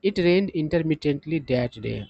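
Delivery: very slow, word by word English; slow example sentence. Shown as a demonstration. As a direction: read it out slowly for learners. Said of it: "sentence में इसका use देखिए".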